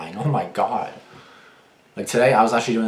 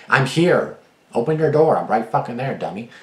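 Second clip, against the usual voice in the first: higher, louder exasperated yell; fed-up yell; 5 semitones higher, 6 dB louder than usual. Retold or imitated. To the date hiding inside, a louder, higher, fed-up yell. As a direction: demand they open the door, fed up. Yelling at date to open door.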